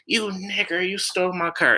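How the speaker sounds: mocking high-pitched woman's voice; high put-on voice, retold; imitated accuser. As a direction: mimic her accusation way up high. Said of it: "she called me a nigger with the hard E R".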